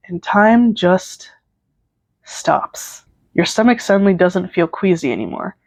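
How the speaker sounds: measured second-person storytelling; story narration. A narrator's reading. Narrator setting up a concert fan fiction, story narration. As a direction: read it out like a story.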